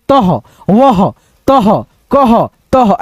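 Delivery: तह, वह, कह each closed with an echoed h; slow, separate drill of तह, वह, कह; half-H ending. Shown as a demonstration. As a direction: end तह and कह on a puff of ह. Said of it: "ऐसे करके".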